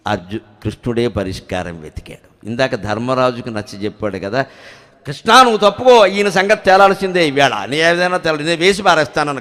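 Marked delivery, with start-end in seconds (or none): 5.1-9.4 loud, heated warrior's threat; raised voice, ready to strike; angry outburst. Retold or imitated. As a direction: bark it out like a furious prince. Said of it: "ఏం ఆవేశాలయ్యా".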